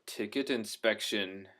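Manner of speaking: slow, lightly voiced inspector's announcement; imitated ticket inspector. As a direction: draw out a mock official announcement. Retold leather-jacketed German inspector announces.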